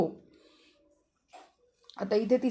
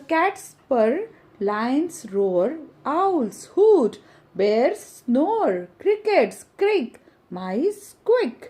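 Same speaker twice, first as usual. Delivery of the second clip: put-on slow, sing-song reading of a children's poem; teacher reading a rhyme aloud to pupils, sing-song; poem recitation. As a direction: recite each line to the class, stretching the words.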